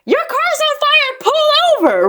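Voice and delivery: high, slow yelled warning; stranger yelling warning. Retold or imitated. Driver in next car warning mom, high yelled alarm. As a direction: shout it across lanes. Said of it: "pulls up next to us and is like".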